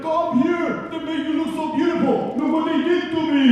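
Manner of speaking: high, loud put-on street call; hawking to everybody. Grinch outside beauty parlor, loudly calling everybody over.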